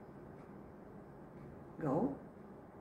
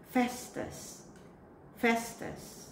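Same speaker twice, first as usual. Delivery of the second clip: whispered; 4 semitones higher, 5 dB quieter, slower than usual. Acted. Teacher reads word list.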